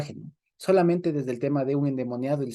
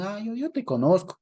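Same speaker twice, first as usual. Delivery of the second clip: mild demon quote; 6 semitones higher than usual. Retold or imitated. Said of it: "No, fue un grito".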